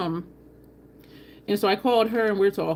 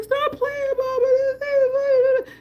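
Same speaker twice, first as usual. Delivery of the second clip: loud, very high child's wail, imitated; crying little boy; 4 dB louder, slower than usual. Boy banging to get in at mama's, mock crying. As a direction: draw out a tearful kid's plea. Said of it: "he started crying".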